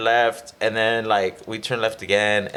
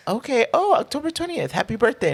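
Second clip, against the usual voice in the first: mock delight; 12 semitones higher than usual. Older examiner reads birthday.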